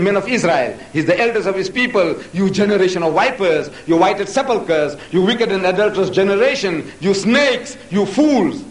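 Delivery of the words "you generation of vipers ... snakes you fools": raised, emphatic rebuke in quotation; fiery quoted name-calling; quoted denunciation. Retold or imitated. Quotes Jesus rebuking the elders.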